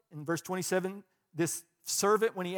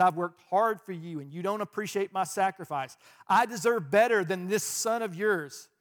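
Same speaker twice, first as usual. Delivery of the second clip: louder, resentful complaint; indignant elder brother; 5 dB louder than usual. Retold or imitated. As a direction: demand what he is owed. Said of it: "He said".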